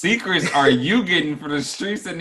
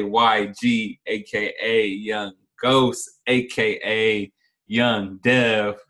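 hype announcer intro; 3 semitones lower, much slower than usual. Acted.

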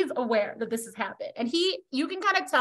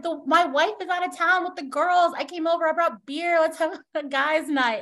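higher, upbeat dad inviting himself in; friendly dad; 5 semitones higher than usual. Acted. Dad proposing guys' night to his friend, friendly. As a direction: lightly voice a chummy dad pitching a night in. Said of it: "It's the dad".

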